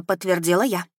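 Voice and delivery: ordinary delivery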